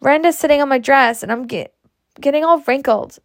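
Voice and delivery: lightly voiced complaining little girl; small child crying out. Small daughter complains to Ma about her dress, lightly whining. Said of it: "cried small Betsy".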